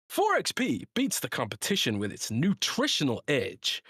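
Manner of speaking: lilting, emphatic sponsor read. Acted. Podcast host reading the sponsor's drink ad, emphatic ad read. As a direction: sell it with swooping stress on key words.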